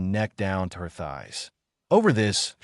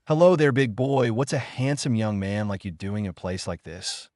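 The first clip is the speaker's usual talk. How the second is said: seductive voice.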